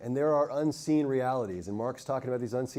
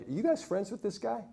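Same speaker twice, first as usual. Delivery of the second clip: higher-pitched, pointed question; challenging older girl; 8 semitones higher, 6 dB quieter than usual. Retold or imitated. Older girl to the boy's best friends, challenging. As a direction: lightly mimic an older kid sizing someone up.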